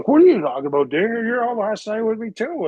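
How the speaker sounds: high-pitched, indignant comeback; mock drunken protest, pitched high; tipsy teammate protesting. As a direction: imitate a boozy buddy arguing back, voice shooting up. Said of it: "Theo was still feeling pretty good".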